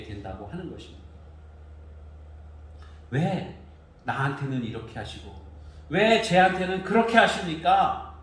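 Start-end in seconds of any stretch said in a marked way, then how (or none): 3.1-8.1 sharp complaint to the father; protesting son. Retold or imitated. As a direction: plead an aggrieved protest. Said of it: "하면서 아버지에게 항변을 하는 거예요".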